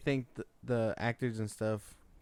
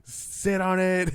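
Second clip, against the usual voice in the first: laughing repeat; 6 semitones higher, 5 dB louder, slower than usual. Retold or imitated. Repeating the funny line.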